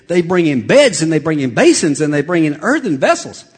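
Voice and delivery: excitedly piling up one thing after another; excited retelling. Shown as a demonstration. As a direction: list building with excitement. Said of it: "With all the excitement".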